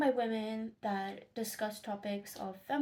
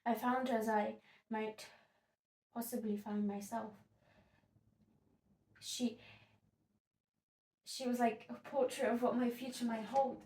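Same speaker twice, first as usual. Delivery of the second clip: subdued, halting reflection; understated, troubled stage monologue; Sylvia, sobered. Acted. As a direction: let the dread of her own future sink in, with long pauses. Sylvia sees herself in the wife.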